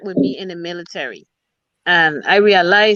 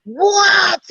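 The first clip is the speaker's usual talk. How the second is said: rude curt answer; 11 semitones higher, 3 dB louder than usual. Retold or imitated. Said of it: "That's how you just answer me".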